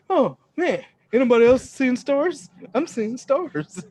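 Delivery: high, loud woozy voice, slow at the end; mock dazed after getting hit; dazed clown. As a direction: play it punch-drunk and seeing stars. Joke after being knocked out.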